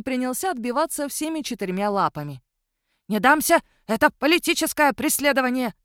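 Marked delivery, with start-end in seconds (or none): 3.1-5.7 кричит, отбиваясь. Acted.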